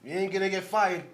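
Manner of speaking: light mock Italian accent; half-hearted Italian-accented Trump. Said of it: "Italian Trump".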